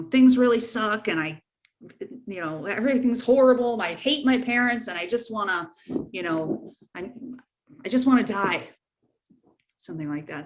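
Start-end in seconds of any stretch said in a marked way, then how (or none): 0.0-8.7 a mock despairing teen, lightly voiced and a bit louder at the start; badly done teen impression. Parent showing how a friend might confide, as a hammed-up teen. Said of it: "That was a horrible impersonation of a teen".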